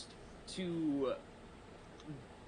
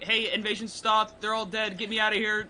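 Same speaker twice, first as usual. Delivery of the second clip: mock prayer; 6 semitones higher than usual. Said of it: "I could be like".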